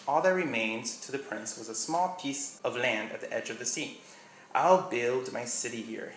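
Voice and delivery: reading a passage from a book aloud; story reading. Acted. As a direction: read it like a storybook narrator.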